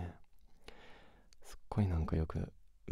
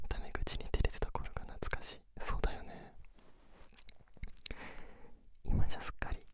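pillow talk; 5 dB louder than usual. Acted. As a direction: murmur intimately as if lying beside them. Sleep-together chat whispered throughout.

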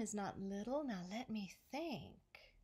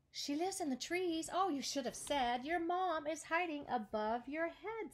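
eager butterfly; 6 semitones higher than usual. Acted. Butterfly excitedly answering.

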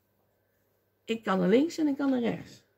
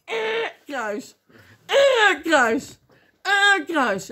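loud imitated reject buzzer between words; high blaring buzz, then the word; X-Factor buzzer; 7 semitones higher, 7 dB louder, much slower than usual. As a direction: buzz each one out like a talent-show judge. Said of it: "Heb je wel eens X-Factor gezien?".

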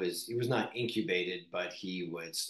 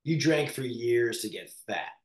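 mock scolding self-talk; 4 dB louder than usual. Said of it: "look in the mirror and go".

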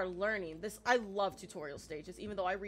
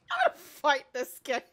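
loud, raised-pitch playful threat; fired-up, jokey frustration; mock-threatening outburst; 4 semitones higher, 11 dB louder than usual. Real, not acted. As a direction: threaten the game at full volume.

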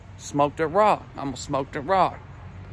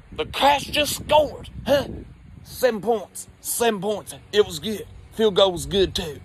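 put-on excited drunk rambling; 2 semitones higher than usual. Drunk uncle excited about game.

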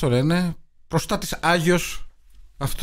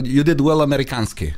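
lightly put-on Middle Eastern or Russian accent in English; English with a mock foreign-villain accent. Co-host imitates old film villains speaking English, mock foreign accent. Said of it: "αγγλικά με την προφορά της χώρας".

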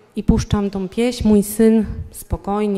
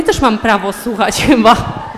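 laughing retort; 4 dB louder than usual. Retold or imitated. She laughs at husband.

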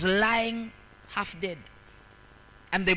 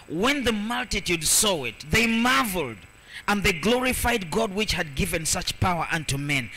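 proclaimed Bible verse; 2 semitones higher than usual. Acted. Preacher reading verse eight to the congregation, proclaimed. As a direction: proclaim the verse, stretching the marvel.

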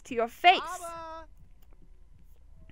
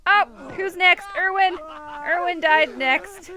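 gleeful call; 3 semitones higher, 5 dB louder than usual. Real, not acted. Gleeful about sims dying.

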